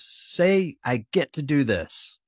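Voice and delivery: shouting a mantra to repeat; retold shout. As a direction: bark it at an athlete, high and loud. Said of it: "he shouts at me".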